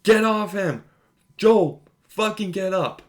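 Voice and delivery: high, loud mock scream of despair; retold scream. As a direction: yell it like Ellie over Joel's body. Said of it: "Ellie just screaming".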